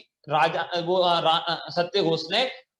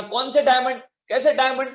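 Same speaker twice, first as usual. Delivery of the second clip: higher, louder mock-innocent denial; feigned innocence; 5 semitones higher, 3 dB louder than usual. Greedy keeper denying the diamonds to the merchant, mock-innocent. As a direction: play dumb about the diamonds, pitched up.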